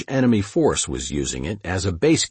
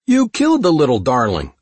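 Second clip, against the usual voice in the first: high, loud outcry in protest; crying out; 8 semitones higher, 5 dB louder than usual. A narrator's reading. Brigade commander to friend who shot his snake, crying out. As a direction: cry out in high-pitched outrage. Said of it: "John cried".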